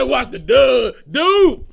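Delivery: high, loud yelled repeat; shouted watch the dust; shouted quote. Retold or imitated. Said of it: "I said".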